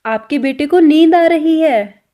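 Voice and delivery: 1 slow teaching demo. Shown as a demonstration. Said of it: "तो इसको पंजाबी में कैसे बोलेंगे?".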